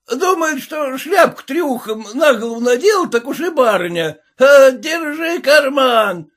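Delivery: high, loud abusive yelling; yelling peasant. A narrator's reading. Red-faced peasant yelling after the lady, high loud abuse. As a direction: shout insults at the lady.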